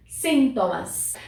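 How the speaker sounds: "Sintomas" said slowly and clearly; stress shown. Shown as a demonstration. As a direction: stress the syllable carefully in "Sintomas". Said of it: "sílaba tônica diferente". ("Sintomas" com a sílaba tônica marcada, devagar)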